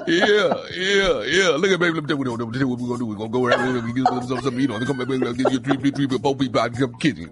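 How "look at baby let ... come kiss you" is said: imitating the boyfriend. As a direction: mumble it like the drawling boyfriend. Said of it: "hard to hold that little character".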